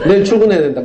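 a wife's line said through a real laugh; laughing while quoting. Real, not acted. Father retelling wife's excuse, laughing through it. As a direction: chuckle your way through her excuse.

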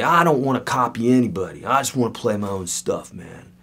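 lightly voiced protesting young musician. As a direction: give a hint of a sulky student, trailing off. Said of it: "a young musician tell me".

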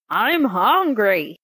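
slow, heavy growl. Acted. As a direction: growl it like a hungry genie. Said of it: "he growled".

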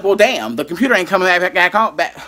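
stuttering. Retold or imitated. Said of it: "stuttering, 'cause this is how heated".

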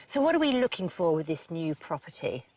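ordinary talk, nothing marked

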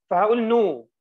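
نو said loudly with the last letter left silent; final letter silent. Shown as a demonstration. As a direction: stress that the s is not sounded. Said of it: "مش هنطق الحرف الأخير". (نو من غير الحرف الأخير)

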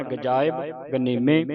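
ਗਜਾਇਬ said as one word before ਗਨੀਮੇ; ਗਜਾਇਬ ਗਨੀਮੇ in a connected flow; joined reading. Shown as a demonstration. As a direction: keep ਗਜਾਇਬ unbroken, long aa. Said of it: "ਇਹ ਵੀ ਇਕੱਠਾ ਪੜ੍ਹਨਾ".

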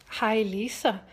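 Julia. Acted. Friend corrects Lisa about her name, Dutch accent. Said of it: "tagged me to do a Dutch accent".

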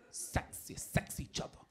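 soft unvoiced sexy whisper; sultry whisper. Comic telling the crowd about dating sex, in a whisper. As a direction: breathe it like a seductive secret.

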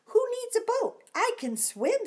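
high loud cheeky boast; high excited boast; boastful. Acted. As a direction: brag playfully. Dinosaur boasts.

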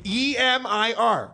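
spelled out. Shown as a demonstration. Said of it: "it's spelled like".

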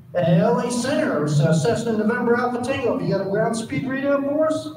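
high, eager radio voice of a small-plane pilot; Cessna pilot on radio. Retold or imitated. Amateur pilot calling LA Center on the radio. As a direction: play the nervous little Cessna guy.

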